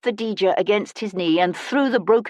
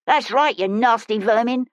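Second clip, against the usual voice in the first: moderately raised, higher scolding voice; mild shout after fleeing thugs; see them off, voice lifted; 4 semitones higher than usual. Acted. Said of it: "the woman shouted".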